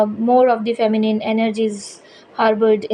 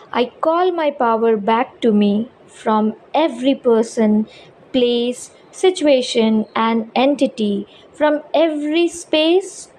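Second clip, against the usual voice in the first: reading out. Shown as a demonstration. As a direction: read it out deliberately, phrase by phrase. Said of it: "I'll be reading this out". (affirmation read aloud with spaced pauses)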